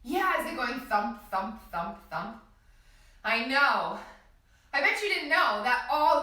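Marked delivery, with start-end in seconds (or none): 0.8-2.4 thump spoken in steady beats; heartbeat rhythm. Shown as a demonstration. Teacher showing children a heartbeat, beating rhythm. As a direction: tap out thump, thump, thump like a pulse. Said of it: "Can you feel your heartbeat".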